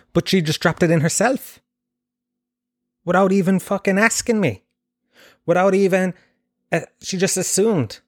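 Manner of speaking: can't believe she did it; indignant disbelief. Real, not acted.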